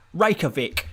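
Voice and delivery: Reykjavik said the English way, RAKE-ya-vick; anglicised Reykjavik, plain English vowels; English pronunciation. Shown as a demonstration. Streamer saying the city name the English way. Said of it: "pronounce it the English way".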